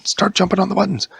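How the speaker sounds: fast, high, loud command; urgent order. Acted. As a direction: bark it out urgently.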